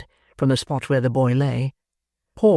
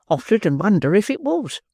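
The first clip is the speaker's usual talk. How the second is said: higher, eager agreement; eager exclamation; 6 semitones higher than usual. Acted. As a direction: seize on the idea. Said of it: "exclaimed Brittles".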